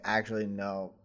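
quiet. Retold or imitated. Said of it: "then she's like".

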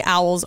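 "owls" said with a long O, like "oles". Shown as a demonstration. Host renaming the birds in protest, "owls" said as "oles". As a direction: rhyme "owls" with "holes". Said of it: "I'm gonna start calling owls owls".

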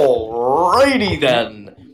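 slow, stretched out alrighty; Ace Ventura drawl. Retold or imitated. Quoting a movie catchphrase to friends, stretched out slowly.

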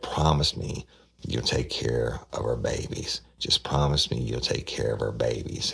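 put-on a wife whispering a plea to her husband to care for their children; pleading. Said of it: "And she's pleading with him".

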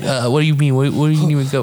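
hammed-up flustered questioning; mock flustered. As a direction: play caught out and confused. Acts out being summoned by secretary.

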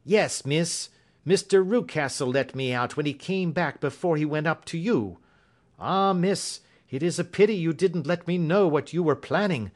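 high-pitched servant woman; Mrs Toller, regretful. Acted. Voices Mrs Toller in story.

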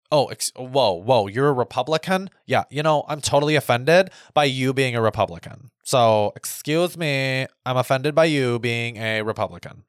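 lightly mocking outraged offense; a mild send-up of a scandalised listener; offended voice. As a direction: play a pearl-clutching person who is easily offended, half-hearted. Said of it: "that's my offensive voice".

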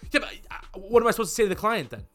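high, whiny, fast pleading; whiny salesman. Retold or imitated. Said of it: "the salesman goes".

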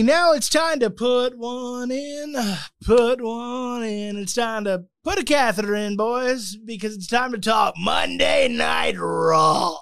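slow booming announcer shout; Vince McMahon impression. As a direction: bellow it like the boss. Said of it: "that was a pretty good Vince".

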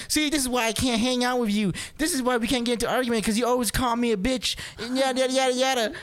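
high, smug accusing voice; mock triumphant girlfriend. Girlfriend using the insult as ammo, smug mock accusation. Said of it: "she's like".

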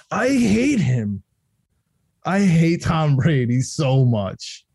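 slow, drawn-out loathing; real exasperated anger. Real, not acted. Fan reacting to Tom Brady coming out of retirement, mad. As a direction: stretch out each word in disgust. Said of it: "I'm so mad right now".

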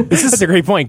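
said through a laugh. Real, not acted. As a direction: laugh while saying it. Repeats phrase laughing.

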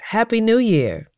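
high-pitched, excited cheer; excited greeting. A narrator's reading. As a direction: call it out too eagerly, pitch leaping up then falling. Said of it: "I said it too fast and too excitedly".

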